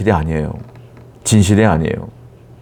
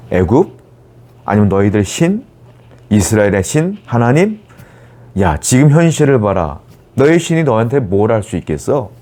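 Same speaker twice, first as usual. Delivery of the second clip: mildly mocking enemy envoy; sarcastic taunt. Assyrian envoy taunting Hezekiah's God, mild sarcasm. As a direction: needle them with scornful questions. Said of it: "라고 비꼬면서 히스기야를 비난하고".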